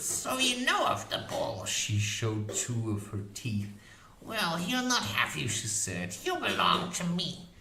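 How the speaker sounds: high, fierce crone voice; witch voice. A narrator's reading. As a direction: boast like a proud old witch.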